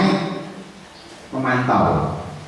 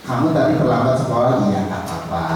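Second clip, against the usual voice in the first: reassuring; 4 semitones lower than usual. Shown as a demonstration. Teacher reassuring a late pupil.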